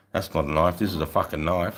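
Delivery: low, deadpan knife line; Crocodile Dundee line. Retold or imitated. Telling the Yanks about the knife, low and deadpan. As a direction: growl the famous movie line. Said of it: "tell him about the knife".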